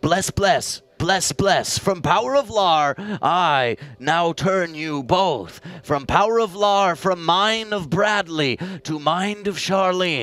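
solemn chanted blessing; mock deity blessing. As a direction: bestow it like a ritual. Deity blesses mother and child.

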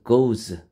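"goes" as one syllable ending in z; goes pronunciation. Shown as a demonstration. Teacher showing go plus es, "goes" ending in z. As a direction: model "goes" with a lengthened o and final z. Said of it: "goes라고 발음해요".

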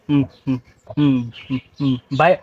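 ordinary talk, nothing marked

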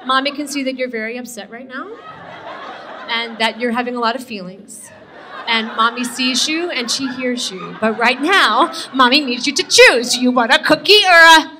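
put-on calm a screaming child; mock therapy-speak mommy; gentle-parenting mom.

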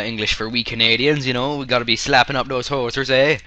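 mock Canadian accent. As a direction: put on a hoser's Canadian accent. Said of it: "so I'm allowed to talk like that".

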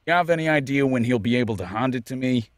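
attempted Australian accent with a broad "hand". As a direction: say "hand" as "hahnd", Australian-style. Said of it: "trying to do a Australian accent still".

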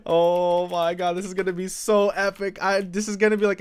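trembling excited voice; shaky nervous falsetto. Real, not acted. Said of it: "do you guys hear my voice shaking?".

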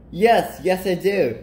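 high, loud, drawn-out eager agreement; excited. Acted. Nebraska eagerly agrees with best friend Kansas, excited. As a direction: agree eagerly, lifting pitch and volume. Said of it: "Nebraska says excitedly".

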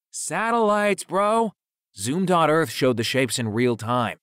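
high, loud bro-ish outburst; excited rebuttal. A narrator's reading. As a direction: burst out high, then press the point.

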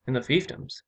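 astonished question; incredulous exclamation. A narrator's reading. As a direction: ask it in disbelief. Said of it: "the Earl exclaimed".

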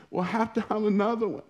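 very high mock-weepy voice; tearful wife, imitated. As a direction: imitate a wife whimpering through tears. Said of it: "she's starting to cry".

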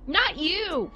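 high-pitched whine of protest; dismayed protest. Real, not acted. Player protesting at a game character, high and dismayed.

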